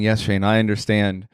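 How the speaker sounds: low, level mock-hypnotic recital; compliant listener voice. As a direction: intone it deep, as if implanting the thought. Voices listener receiving his beamed thoughts.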